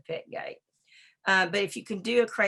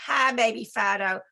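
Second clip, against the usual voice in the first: calm greeting demo. Shown as a demonstration. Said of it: "You come in and you say".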